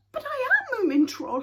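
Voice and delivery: high, loud despairing cry; bursting out in despair. A narrator's reading. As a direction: burst out, desperate to be believed. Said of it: "he burst out in despair".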